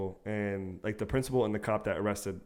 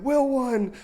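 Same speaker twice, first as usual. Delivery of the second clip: high put-on voice of a flustered friend; high mock voice, louder; friend's reply; 6 dB louder than usual. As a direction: squeak it out, caught off guard. Friend voicing answer to mom.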